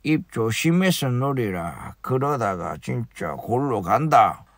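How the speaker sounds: low, soft, slow threat; menacing threat. Pretend. Caller quietly threatening the chairman, low and slow.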